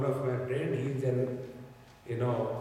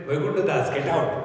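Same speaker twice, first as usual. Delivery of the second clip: a mock gatekeeper barks him out, louder; louder mock dismissal; 5 dB louder, faster than usual. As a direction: slam the door on him in jest.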